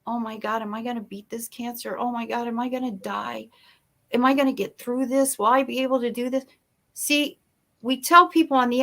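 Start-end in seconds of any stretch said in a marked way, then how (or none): 0.1-6.4 anxious inner voice. Retold or imitated. A patient alone at night, hushed anxious self-doubt. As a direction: whisper your fears to yourself at night. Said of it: "their mind starts messing with them".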